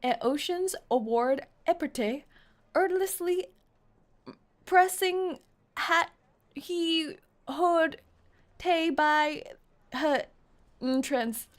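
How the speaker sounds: halting mock British, word by word; skipped first letters. Shown as a demonstration. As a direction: chop the first letters off, pausing between words. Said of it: "skip the first letter of every word".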